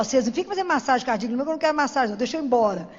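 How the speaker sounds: mock-stern orders to the nurses; insistent demand. Telling the ICU staff not to revive her, insistent.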